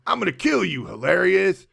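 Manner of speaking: lightly voiced villain threat; mock villain threat. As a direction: growl it like a movie villain. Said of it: "And he goes".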